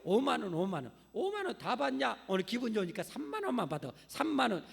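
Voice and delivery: loud, high, pushy hawker's patter; snake-oil peddler. Retold or imitated. Swindling medicine seller pitching to a crowd, loud hawker. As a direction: hawk it like a market quack dropping prices. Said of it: "약장사가 그렇게 해요".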